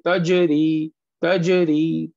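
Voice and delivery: तजरी with a strong echo after j; forceful qalqalah. Shown as a demonstration. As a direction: hit the j of तजरी hard and bounce it. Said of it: "शिद्दत के साथ पढ़ते हैं".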